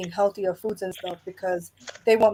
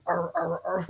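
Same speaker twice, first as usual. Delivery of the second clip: imitated horse-like cough; 3 semitones lower, 8 dB quieter than usual. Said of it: "He sound like a horse coming out of his throat".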